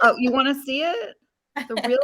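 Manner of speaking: muffled behind a mask; speaking through a face mask; through a plague doctor mask. Real, not acted. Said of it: "with the mask on".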